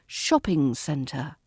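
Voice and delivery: shopping centre, slow, weight on the first word; stress on shop. Shown as a demonstration. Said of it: "stress falls on the shop of shopping".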